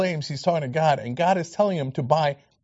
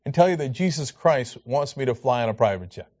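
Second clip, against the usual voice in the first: mock preacher; 5 semitones lower than usual. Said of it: "where preachers say".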